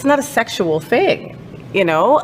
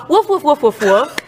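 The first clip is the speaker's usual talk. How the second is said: playful barking; 6 semitones higher, slower than usual. Pretend. Barks at the dog like a dog.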